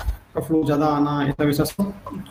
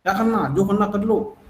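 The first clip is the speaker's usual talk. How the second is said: defiant wife; 4 semitones higher than usual. Retold or imitated. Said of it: "ऐसी खड़ी हो गई बिल्कुल कि".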